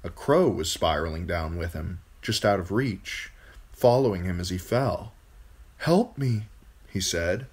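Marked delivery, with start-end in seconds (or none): 5.8-6.5 put-on pleading boy. A narrator's reading. Falling boy begs the crow.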